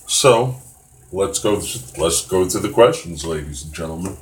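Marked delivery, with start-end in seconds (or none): 2.0-4.2 a hint of a game show host. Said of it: "I sound like a game show host".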